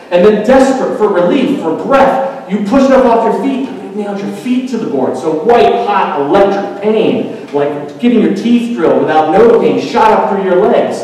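high, loud, relentless build; impassioned preaching. Acted. Preacher makes the congregation feel crucifixion agony, impassioned. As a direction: pile on the agony, urgent and pressing.

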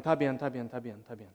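calm him down gently; soothing. Retold or imitated. Old neighbor reassuring the begging preacher, softly.

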